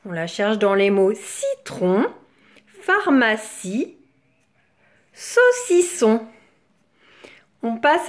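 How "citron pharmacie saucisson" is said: "citron, pharmacie, saucisson" slow and segmented; syllable by syllable. Shown as a demonstration. Teacher having children hunt for si, "citron, pharmacie, saucisson" syllabified. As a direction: separate each beat in "citron, pharmacie, saucisson". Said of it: "on cherche la syllabe si".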